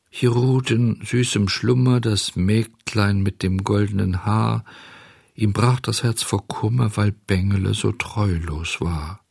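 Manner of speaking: mournful, evenly intoned chant; wistful monotone. Acted. Beetle reciting the fairy's gravestone, wistful and monotonous. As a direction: drone it like a sad dirge. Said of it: "sang wehmütig und eintönig".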